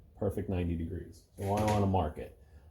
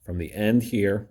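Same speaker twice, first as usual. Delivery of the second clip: emphatic; 7 dB louder than usual. Real, not acted. Stressing the key measurement.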